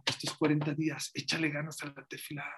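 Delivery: quiet repeat. Shown as a demonstration. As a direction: say "Échale ganas" softly as a closing thought. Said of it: "quiet repeat of exhortation". (repetición suave y baja)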